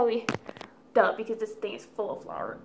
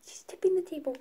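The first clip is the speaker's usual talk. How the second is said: alarmed whisper; 5 semitones higher than usual. Real, not acted. Cat tipping the table.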